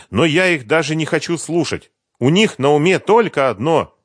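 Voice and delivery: put-on eager young woman recalling Kiev; Sveta's voice. A narrator's reading. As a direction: chatter it brightly as Sveta.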